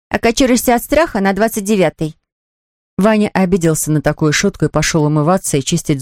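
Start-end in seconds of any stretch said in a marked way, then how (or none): 0.1-2.2 high-pitched sarcastic sister; snide. Acted. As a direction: needle a younger brother. Сестра язвит брату. (ехидно, высоким голосом сестры)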